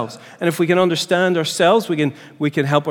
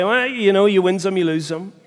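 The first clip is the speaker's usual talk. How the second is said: a light, higher shrug, ending on a laugh; shrugging it off; 4 semitones higher than usual. Pretend. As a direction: toss it off like it doesn't matter. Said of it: "or should I say".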